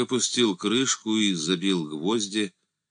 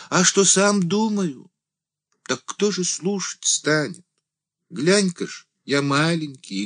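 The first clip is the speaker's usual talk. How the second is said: high, louder little-man voice rising to a cry; lamenting deacon; 10 semitones higher, 4 dB louder than usual. A narrator's reading. The small deacon laments to Andrey, high and rising. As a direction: wail that you'd shout to the whole world.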